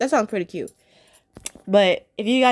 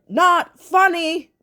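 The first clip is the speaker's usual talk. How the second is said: slow, drawn-out mock yell, higher and louder; 7 semitones higher, 5 dB louder, much slower than usual. Hyena leader yelling at the herders, slow and loud. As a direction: bark it out slowly like an annoyed hyena boss. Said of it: "he yelled at them and said".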